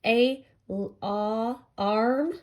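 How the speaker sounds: "a l-, ah, arm" in separate pieces; teacher breaking alarm into its sounds, ay, l, ah, arm; sounded-out word. Shown as a demonstration. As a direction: isolate the ah, then blend it into "arm". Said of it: "you hear a short A sound".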